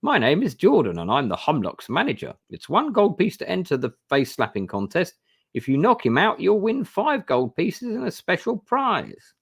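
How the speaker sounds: high, loud carnival barker pitching the contest; loud showman. Acted. Manager invites the player to the slapping contest, high loud barker voice. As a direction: sell it like a brash showman calling a crowd. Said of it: "says in a loud voice".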